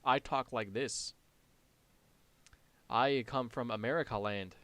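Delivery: mock generic American accent, deliberately spoken. Shown as a demonstration. Streamer shows chat what generic American sounds like, mock American accent. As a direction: caricature an American introducing himself. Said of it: "generic American accent is like".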